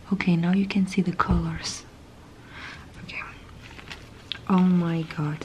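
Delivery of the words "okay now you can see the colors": hushed unboxing whisper. Real, not acted. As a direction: breathe the words close to the mic.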